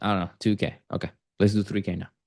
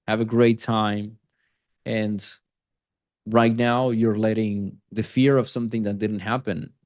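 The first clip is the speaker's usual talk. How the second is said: earnest, personal appeal, slowing on the key points; emotional appeal. Shown as a demonstration. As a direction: speak to his heart, drawing out the last words. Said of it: "just me talking like this, I'm reaching a more emotional".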